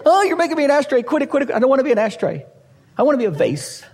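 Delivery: high, whiny protest; mock complaint of a lump of clay; whiny clay pot. Clay voiced protesting to potter.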